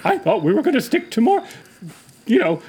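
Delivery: put-on high fluttery old lady voice; sweet old lady. Plays an old lady character.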